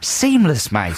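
self-satisfied mock Australian accent; put-on Australian accent. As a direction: boast in hammed-up Australian. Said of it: "gone back into the accent".

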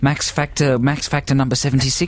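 badly faked Aussie accent; mock Australian accent. Host tells Australian friend his day, mock Australian accent. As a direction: play a chatty Aussie mate. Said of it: "they're very poor Australian accents".

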